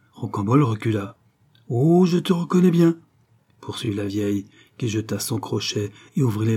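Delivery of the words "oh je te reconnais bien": high, louder crone voice; hoarse old woman. A narrator's reading. Old ragpicker insists she knows her son, high hoarse cry. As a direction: exclaim as an excited old ragpicker. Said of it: "d'une voix enrouée par l'abus de trois six".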